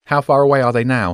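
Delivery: nervous, anxious tone. Jenny asks the falcon about the eagles: nervous question. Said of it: "Jenny asked nervously".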